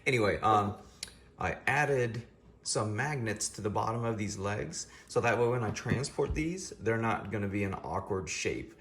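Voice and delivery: talking with half the face numb; slurred speech from dental numbness. Real, not acted. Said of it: "excuse the way I'm talking, I just came from the dentist, half my face is numb".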